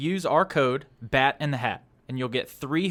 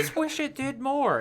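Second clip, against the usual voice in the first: much higher, whiny imitation of a friend; mocking whiny quote; 11 semitones higher than usual. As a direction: mimic a complaining fan, pitched way up. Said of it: "you're like".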